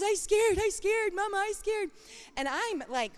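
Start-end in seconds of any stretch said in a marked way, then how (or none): 0.0-1.9 put-on high, frightened little child voice; scared toddler. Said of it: "he's just under there going like this".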